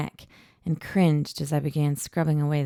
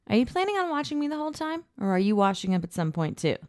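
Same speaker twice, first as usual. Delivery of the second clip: exasperated; 7 semitones higher, faster than usual. A narrator's reading. Fast exasperated question, high.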